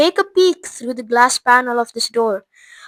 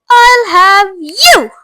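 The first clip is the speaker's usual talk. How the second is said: high, loud, slow claim; greedy spoilt girl; 9 semitones higher, 8 dB louder, much slower than usual. Acted. Veruca reaches for a squirrel, greedy slow claim. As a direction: draw it out greedily.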